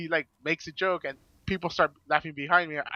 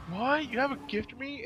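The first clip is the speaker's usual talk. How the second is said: imitating a much higher, surprised voice; surprised delight; 10 semitones higher than usual. Fan hands her a gift, she squeals in surprise. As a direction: retell her stunned, thrilled reaction.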